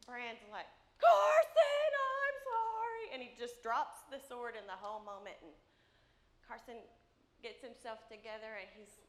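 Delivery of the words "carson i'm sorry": mock urgent apology. Dad blurts an apology.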